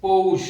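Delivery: পৌষ said loudly and clearly, as pou-sh; পৌষ said loud and distinct; pronunciation demo. Shown as a demonstration. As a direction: announce পৌষ loudly for the class. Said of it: "এটি উচ্চারণের বানান".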